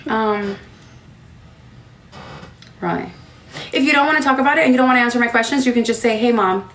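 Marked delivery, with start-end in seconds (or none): 3.7-6.7 reassuring mom. Real, not acted. Mother reassures daughter before questions.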